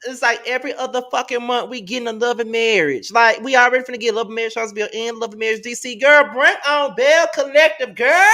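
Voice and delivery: loud, high-pitched rant building to a peak; exasperated hype. Real, not acted. Co-host begging the network for her favorite show, exasperated. Ranting excitedly about show scheduling.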